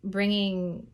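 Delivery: lingering on phrases, leaving space to breathe; guided meditation. Acted. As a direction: guide listeners gently through breath and body, unhurried.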